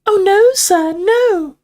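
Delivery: very high, emphatic elf squeak; serious house elf. A narrator's reading. Dobby answers Harry, serious squeaky denial. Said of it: "looking suddenly serious".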